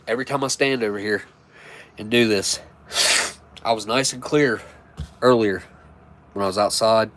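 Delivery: stuffy nose, clogged up. Real, not acted. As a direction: speak with a blocked nose. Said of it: "I'm clogged up".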